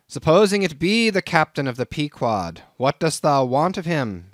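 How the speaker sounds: crusty Nantucket captain sizing up a greenhorn; gruff old sea captain. Acted. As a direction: bristle at the stranger like a crusty old skipper. Old captain challenges Ishmael.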